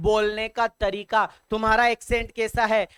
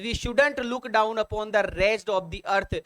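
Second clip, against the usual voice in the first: slow careful read-out; much slower than usual. Shown as a demonstration. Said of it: "rereads sentence slowly".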